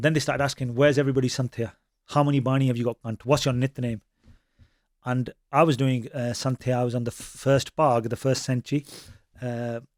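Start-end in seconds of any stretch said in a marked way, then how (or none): none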